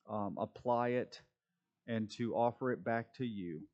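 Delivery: steady, reverent prayer voice; closing prayer. Acted. Pastor leads class in closing prayer, reverent.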